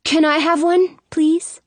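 put-on high, hopeful kid's voice; pleading little boy. A narrator's reading. Brother holding out his hand, pleading. Boy begs the old lady.

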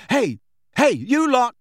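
high, loud call across hall. A narrator's reading. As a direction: hail the kids from afar. Ron calling to first years.

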